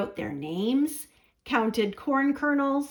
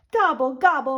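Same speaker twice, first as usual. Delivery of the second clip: moaned; 4 dB louder than usual. Acted. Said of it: "moaned Turkey".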